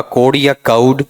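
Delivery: "कोड" with pure o, "काउड" with ow glide; contrasted vowel sounds. Shown as a demonstration. Teacher asking students which is wrong, contrasted vowel sounds. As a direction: slowly set "कोड" against "काउड", rising at the end. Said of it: "इसमें गलती क्या रहेगी".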